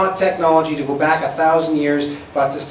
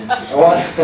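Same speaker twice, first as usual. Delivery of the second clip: laughing; 5 semitones higher, 7 dB louder than usual. Real, not acted. Breaks up laughing mid-poem.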